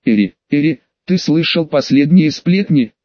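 ordinary delivery

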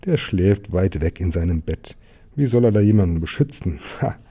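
incredulous, scoffing questions; mocking robber. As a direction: scoff at the idea of protection. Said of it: "Räuber Haarblitzel laut gelacht".

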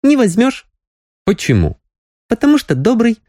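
lightly voiced young girl, teasing. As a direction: tease him like a fond young girl.

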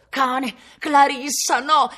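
lento, acuto e forte, straziato; un grido di dolore per il libro bruciato; lamento urlato. Acted. Pages thrown into the fire. (lamento gridato e lento)

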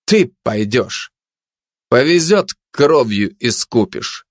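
slow, deliberate order; slow, imperious announcement; commanding tone. Acted. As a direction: hand down the order word by word. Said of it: "приказным тоном объявил".

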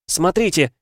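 high, loud cry of a wronged daughter; anguished cry. A narrator's reading. Daughter crying out to her parents, anguished shout. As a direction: cry out to make them look. Heroine shows her scarred back.

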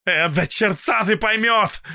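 high, loud, rude brush-off; rude dismissal. A narrator's reading. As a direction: toss it off rudely. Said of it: "грубо бросил он Паше".

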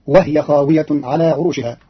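وهي with the ha made silent, wahya; Qalun reading. Shown as a demonstration. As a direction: say وهي as wahy with no vowel on the h. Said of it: "فتصير".

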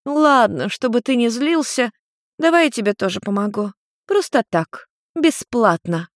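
high, indulgent mother voice; tipsy mother offering to help for free; placating mother. Acted. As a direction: soothe him like a tipsy mum. Nariko placates son.

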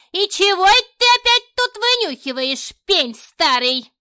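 high, loud, grumbling crone voice; old woman catching the snooping old man, high and loud. Acted. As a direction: scold him as a cranky old neighbour. Grumpy neighbour scolding the old man.

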